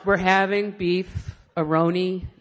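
slow, halting mock poetry recital; poetry reading. Shown as a demonstration. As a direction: stretch the jingle out like a pretentious poem. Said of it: "You know how people read poetry?".

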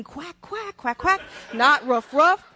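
high mock Italian accent on Quack and roof; imitating the Italians. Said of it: "They're going".

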